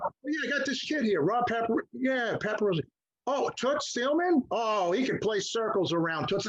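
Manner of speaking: lightly acted, high-pitched boasting; imitated phone pitch. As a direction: mimic a studio guy selling a kid by phone. Retold phone pitch to a friend.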